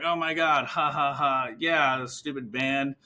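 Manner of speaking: mock laughing agreement, put-on voice; light acted "ha, ha, ha" agreement; imitated patient chuckling along. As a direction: fake a knowing laugh along with the speaker.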